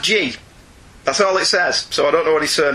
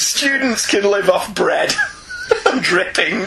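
laughing; 3 semitones higher, slower than usual. Real, not acted. Jokey student poverty banter.

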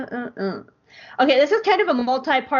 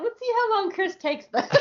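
laughing; 12 semitones higher than usual. Retold or imitated. Laughing while quoting herself.

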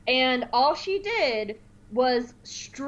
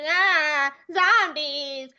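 panicky droid; 5 semitones higher, much slower than usual. Retold or imitated. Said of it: "some kind of droid line".

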